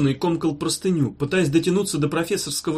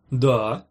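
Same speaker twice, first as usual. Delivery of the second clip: drawn-out questioning DA; DA stretched into a query; 3 semitones lower than usual. A narrator's reading. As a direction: say DA slowly as a wary question. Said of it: "вопросительно отозвался Йогурт Жирафыч".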